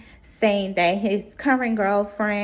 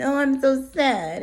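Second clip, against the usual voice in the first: mock sadness; 4 semitones higher than usual.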